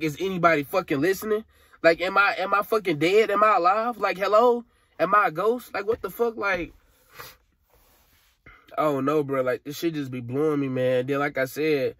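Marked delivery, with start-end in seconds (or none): 0.0-6.7 higher and louder, exasperated disbelief; frustrated outcry. Real, not acted. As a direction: shout into the void, feeling invisible. Venting, calling out ignored by everyone.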